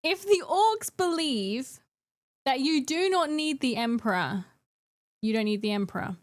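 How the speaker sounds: deliberately provocative pronouncement; slow mock-solemn proclamation. Real, not acted. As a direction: proclaim it like a grand trolling thesis. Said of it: "figure out how to phrase this".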